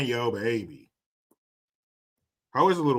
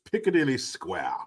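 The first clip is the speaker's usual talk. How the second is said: mock-British, with "Square" ending r-less; British accent. Repeats it in put-on British accent.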